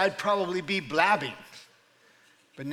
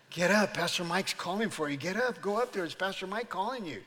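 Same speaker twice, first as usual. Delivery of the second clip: quick voices of a crowd urging someone on; eager urging; 2 semitones higher than usual. Acted. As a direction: urge them to get up and go.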